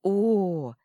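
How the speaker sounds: breathy surprised oh; amazed oh. Acted. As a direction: gasp it in amazement. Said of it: "с изумлением посмотрел". (изумлённое «О!»)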